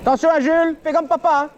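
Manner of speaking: calling out. Real, not acted. Papa prévient son fils à vélo.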